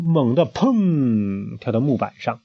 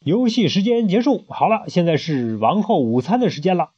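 high, bossy proclamation; queen declares playtime over; royal announcement; 6 semitones higher than usual. Acted. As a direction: announce lunch like a haughty queen. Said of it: "摇着铃铛宣布".

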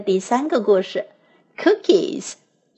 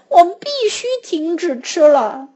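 crying out; 6 semitones higher, 3 dB louder than usual. A narrator's reading. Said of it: "一边叫了起来".

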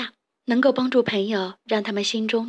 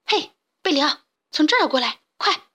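calling out; 5 semitones higher than usual. Acted. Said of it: "卡梅利多喊道".

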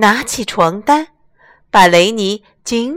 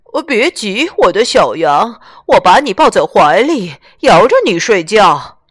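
louder soothing horse mother; horse lady voice; 5 dB louder than usual. Acted. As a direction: comfort him loudly like a horse mother. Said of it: "马太太听见小羊的叫声".

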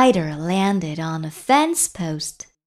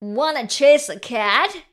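higher-voiced dog character; raised pitch with a questioning lift; storybook dog; 5 semitones higher, 4 dB louder than usual. A narrator's reading. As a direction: ask as a keen dog. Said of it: "barked the dog".

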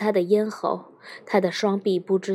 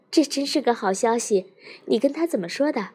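glad; 3 semitones higher than usual. Acted. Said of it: "高兴地说".

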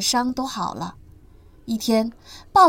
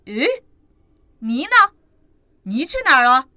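worried surprise; 9 dB louder than usual. Acted. Dad notices Ni missing.

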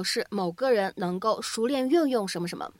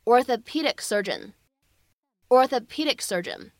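"orthopedic surgeon" slowly, every syllable clear; slow, careful; slower than usual. Shown as a demonstration. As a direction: take the tongue twister slowly, twice. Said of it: "非常绕嘴的职业". (慢速清晰读"orthopedic surgeon")

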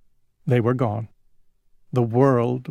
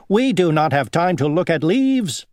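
dragonfly voice; 5 semitones higher, 4 dB louder than usual. Acted. Second dragonfly boasts.

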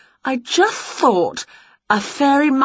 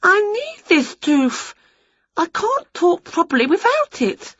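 despairing witch; 3 dB louder than usual. Acted. Witch lamenting her lost tooth to her cat, high and whiny. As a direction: moan as if the world is ending.

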